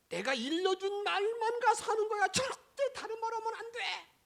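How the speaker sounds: high, loud commanding order; God commanding sharply and loud; stern loud warning. Acted. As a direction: lay down the law, loud.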